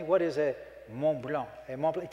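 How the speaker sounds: "Mont Blanc" said the French way through the nose; French pronunciation. Shown as a demonstration. Buddy teaching me to say Mont Blanc, nasal French. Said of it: "He teaches me how to say it. It's kind of nasal thing".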